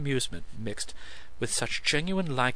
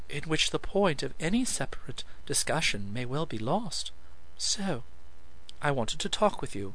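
lightly raised, poised lady's voice; a composed woman gently lecturing, a touch higher; Lilith, cool and amused; 3 semitones higher than usual. Acted. Narrator voices Lilith at length.

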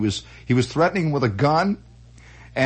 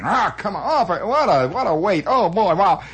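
impatient mock griping, pitched up; grumbling crowd; 4 semitones higher than usual. Waiting customers grumble at the stand, grumbling. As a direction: mimic a fed-up queue. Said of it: "the people are muttering".

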